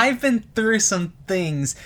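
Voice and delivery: lightly voiced creepy smiling; creepy smile voice. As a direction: say it through a fixed smile. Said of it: "saying it with a super smile".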